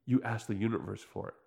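mock metaphysician. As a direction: imitate a self-help guru, low and hushed. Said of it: "And he's just like".

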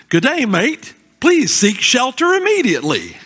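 hint of an Australian park announcer. Australian theme park loudspeaker warning guests, mock Australian accent. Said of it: "like an Australian theme park".

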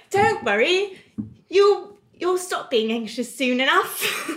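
put-on reassuring British nanny accent; inner British voice. Inner voice calming her anxiety, British accent. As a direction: soothe yourself in a British accent. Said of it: "Mine's like".

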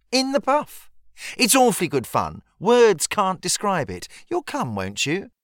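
put-on high, bright-eyed girlish voice; a scandalised, thrilled young lady; lightly voiced eager schoolgirl. A narrator's reading. Molly teasing Harriet about the midnight swim, high girlish voice.

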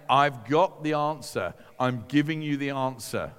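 emphatic, assured offer; confident promise. Retold or imitated. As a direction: stretch the first phrase with firm assurance.

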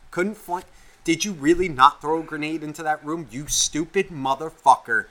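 mock tirade, a touch of heat; retold angry rant. Player berates teammate over the mic, retold rant. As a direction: spit insults as if replaying a gamer rant. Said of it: "you're yelling at this person".

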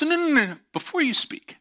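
dad cutting in. Retold or imitated. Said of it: "he goes".

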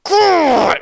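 high, drawn-out curse through gritted teeth; stretched, pained groan of words; strained agony. Retold or imitated. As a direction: act out cursing through a cramp, straining not to scream. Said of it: "I am gritting my teeth".

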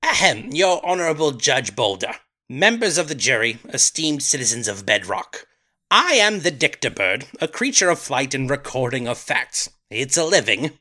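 lightly British, mock formal court address; a hint of a British accent, addressing the judge; British bird voice. Playing a British bird testifying to the judge in a light British accent. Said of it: "He's a little more British".

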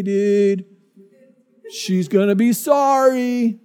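a stoner surfer hurt by her words; surfer dude. Retold or imitated. Surfer husband grumbling about his wife, lazy surfer drawl. Surfer boasting to store clerk.

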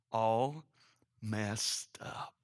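hushed, near-voiceless whisper; whispered punchline. Real, not acted. Preacher summing up the family, whispered aside. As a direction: let it sink to a whisper.

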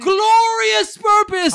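high, slow title announcement; dramatic announcer. Acted. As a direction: boom out the title like a trailer.

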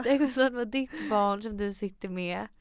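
moved, on the edge of crying; real tearing up. Real, not acted. Telling a pregnant friend about her coming child, tearful. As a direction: talk on through welling tears. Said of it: "nu börjar jag gråta igen".

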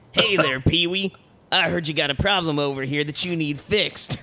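a hint of a folksy handyman; Ernest voice. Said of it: "anybody can do an Ernest voice".

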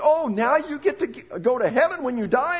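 mock cheer. Mocking a shallow gospel.

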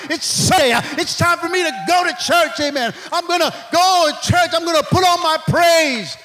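bursting to get to church; excited churchgoer. Pretend. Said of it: "excites you to get up and say".

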